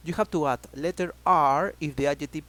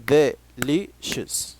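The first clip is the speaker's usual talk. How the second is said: slow model word; 4 dB louder, much slower than usual. Shown as a demonstration. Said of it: "three syllables".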